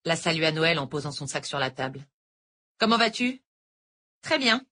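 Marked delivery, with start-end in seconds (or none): 2.8-3.4 lightly voiced older teacher; a hint of a sweet Irish tutor; sweet-talking teacher, lightly voiced; teacher Noël. A narrator's reading. 4.2-4.7 put-on higher, girlish reply; lightly voiced teenage girl; a hint of a polite schoolgirl; teen Ellie. A narrator's reading.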